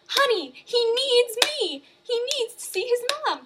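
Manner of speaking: loud, high desperate mother's plea; pleading mother. Retold or imitated. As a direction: beg your husband, voice way up. Diane pleads for her son.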